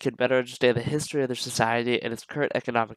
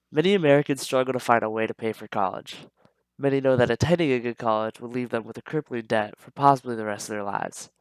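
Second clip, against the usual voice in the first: nasal voice from a stuffed-up nose. Real, not acted. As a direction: speak with a blocked, nasal nose. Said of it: "my voice is a little nasally".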